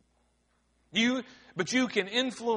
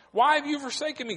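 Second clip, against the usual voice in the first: fast cry; 5 semitones higher, faster than usual. Retold or imitated. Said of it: "Jesus cried the same thing".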